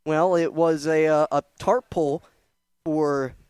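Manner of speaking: catching his breath while talking. Real, not acted. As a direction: still winded, heavy breathing. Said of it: "I do apologize for the heavy breathing".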